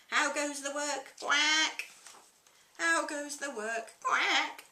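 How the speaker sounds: high, loud farmer and duck calls; frantic loud exchange. Acted. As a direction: shout the calls back and forth.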